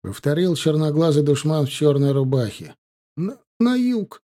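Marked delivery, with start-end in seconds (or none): 3.2-4.2 forced out. Acted. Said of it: "выдавил мальчишка через силу".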